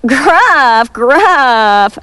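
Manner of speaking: chomped. A narrator's reading. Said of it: "chomped the middle billy goat".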